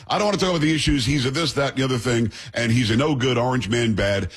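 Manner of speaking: fast, dismissive mock rant; mocking leftist. A relative refusing to debate, fast mock rant. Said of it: "People literally will say".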